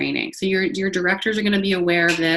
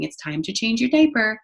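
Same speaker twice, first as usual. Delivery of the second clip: gentle to infant; 4 semitones higher than usual. Shown as a demonstration. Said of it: "we need to be telling them".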